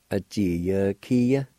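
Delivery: "A G, ya, kia" blended, G I turning into "kee"; joined-up "A G, ya, kia" with a K-like G. Shown as a demonstration. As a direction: say the G in "kia" almost as K, after "A G, ya". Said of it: "will almost sound like a K I sound".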